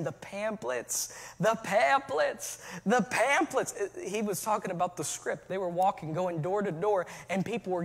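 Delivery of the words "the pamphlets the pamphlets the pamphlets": slow, drawn-out demon voice; demonic voice. Retold or imitated. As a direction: drag it out like a possessed man. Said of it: "in a demonic voice was saying".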